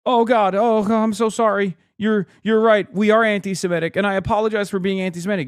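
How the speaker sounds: high-pitched imitation of cowed Democrats; mock grovelling apology. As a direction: cave in with exaggerated, high-voiced apologies. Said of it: "They were just going".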